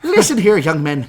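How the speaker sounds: loud, hammed-up Black Panther impression; booming mock T'Challa. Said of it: "the Black Panther voice".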